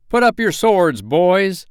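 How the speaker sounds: high, loud command; commanding shout, pitched right up; crying out. A narrator's reading. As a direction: call off your fighters with a ringing cry. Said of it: "cried the newcomer".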